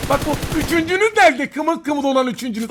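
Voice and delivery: high, loud mocking call; taunting shout. Real, not acted. Streamer hunting the enemy squad, taunting shout. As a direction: taunt them, looking for the third.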